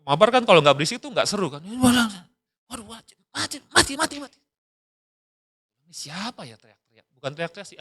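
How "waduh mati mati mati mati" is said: high mock panic, mati mati mati; a hint of a frantic gamer; panicked gamer. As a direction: imitate a kid losing a game, higher. Son panicking mid-game.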